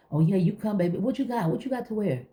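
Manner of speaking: high, sugary fake-friendly voice; sweet on top, judging underneath; fake sweet church lady. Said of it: "fake stuff that's going on".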